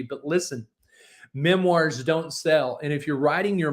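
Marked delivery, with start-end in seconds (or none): 1.3-2.8 slow and emphatic. Real, not acted. Blunt warning to aspiring authors.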